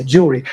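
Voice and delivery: jewelry in two syllables, JOOL-ree; syncopated. Shown as a demonstration. Lecturer showing how we would say it, syncopated jewelry. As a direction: drop the unstressed middle E of jewelry. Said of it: "as we would say".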